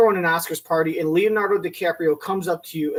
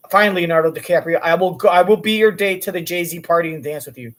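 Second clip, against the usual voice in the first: exasperated give-in; 5 dB louder than usual. Retold or imitated. Exasperated giving in to Leo.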